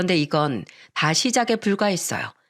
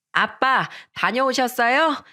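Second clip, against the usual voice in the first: put-on higher, slowed child voice greeting dad; little boy voice; 5 semitones higher, slower than usual. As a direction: play the small son running to dad. Little son greets father.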